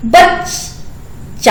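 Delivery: बच्चा drawn out syllable by syllable; slow demo. Shown as a demonstration. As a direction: stretch बच्चा slowly with a clear half च. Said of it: "तो देखिए". (बच्चा धीरे-धीरे खींचकर)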